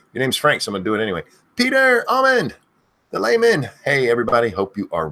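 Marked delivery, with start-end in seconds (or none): 1.6-3.7 high, slow yelled name; screamed drawn-out name. Acted. Streamer screaming a viewer's name, slow yell. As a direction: stretch the name into a long yell. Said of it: "I end up screaming too much".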